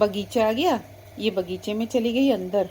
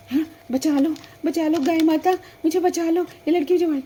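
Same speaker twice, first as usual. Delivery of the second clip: loud, higher desperate pleading; calling the cow to save her; begging for help; 5 semitones higher, 3 dB louder than usual. Acted. Girl begging cow for rescue. (डरकर गिड़गिड़ाते हुए पुकारना)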